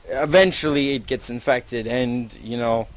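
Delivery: ordinary delivery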